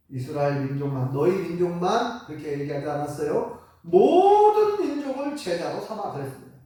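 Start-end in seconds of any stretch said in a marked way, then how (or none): 3.8-6.1 slow, louder, higher "모든" stressed. Shown as a demonstration. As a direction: drive home "모든 민족을". (설교자가 "모든"을 강하게 강조)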